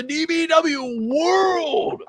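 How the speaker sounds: slow, drawn-out ringside announcer intro; horror host. Acted. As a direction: roll out the champion's name like a spooky host. Grand introduction of the champion.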